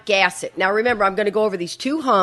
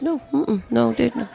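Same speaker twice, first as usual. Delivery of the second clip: sheepish denial; 3 semitones higher, 6 dB quieter than usual. Retold or imitated. Lying to the boss.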